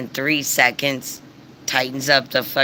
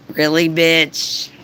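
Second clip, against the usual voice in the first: slow, louder sneer, pitched up; scornful; 4 semitones higher, 5 dB louder, slower than usual. Real, not acted. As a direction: drag it out in disbelief. Scoffing at the neighbor's complaint.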